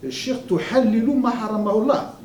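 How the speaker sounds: quoting a bearded imam. Retold or imitated. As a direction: play the stern imam's rebuke. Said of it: "il y avait un imam qui avait une barbe, me disait".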